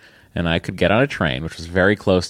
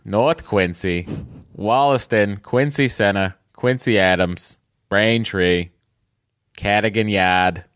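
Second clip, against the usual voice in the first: put-on slow Boston accent roll call of stops; slower than usual. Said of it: "here he goes with his Boston accent".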